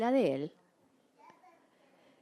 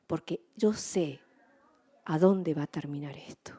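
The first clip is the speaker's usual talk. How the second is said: calm trust; 4 semitones lower than usual. Retold or imitated. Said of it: "enfrentaba la vida tranquilamente".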